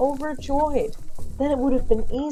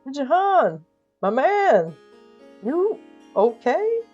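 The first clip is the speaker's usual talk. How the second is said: higher, hearty greeting; big friendly check-in, pitched up; booming goodwill; 6 semitones higher, slower than usual. A narrator's reading. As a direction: greet him with overflowing goodwill. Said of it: "the overflow of booming goodwill".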